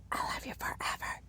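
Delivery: soft whispered bedtime words; hushed, voiceless whisper; tender whisper. Retold or imitated. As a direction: whisper it into a child's ear. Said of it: "I would whisper in her ear".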